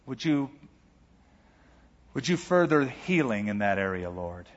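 measured public prayer with long pauses. Real, not acted. Pastor leads congregation in prayer on Father's Day, measured prayer. Let's pray.

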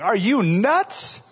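slow, high mock disbelief; drawn-out are you crazy tone, imitating the congregation; incredulous. Listener balking at the preacher's advice, mock incredulous. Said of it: "I know you're thinking".

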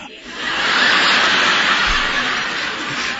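long laugh at his own story. Real, not acted. Preacher after his failed-accent punchline, long laugh. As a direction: let the punchline laugh run on.

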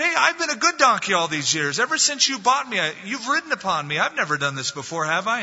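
donkey reminding its master of years of service; hurt donkey. Acted. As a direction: plead like a loyal old donkey. Donkey pleads with Balaam.

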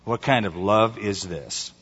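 "kind" leaned on, falling and hushed; quiet repeat. Shown as a demonstration. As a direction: drop the voice and hit "kind". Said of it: "Or you might translate it".

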